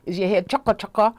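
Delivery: lightly imitated West Indian accent; West Indian mother. Mother asking daughter about her hair, light West Indian accent. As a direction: ask it like a West Indian mum, lightly done. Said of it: "my mother's West Indian".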